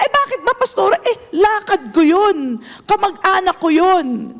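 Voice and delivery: high whiny protest; stubborn member. Retold or imitated. Pastor imitating a member's excuse to her pastor, high whiny protest. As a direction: whine like a member dodging the rule.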